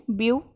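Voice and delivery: "ब्यू" said alone as the first part; teacher sounding out "ब्यू"; isolated syllable. Shown as a demonstration. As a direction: set "ब्यू" apart, then stop. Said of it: "इसको तीन part में".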